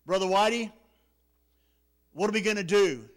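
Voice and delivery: desperate call for help. Retold or imitated. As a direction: shout it over the roar of water. Calling out from the tree.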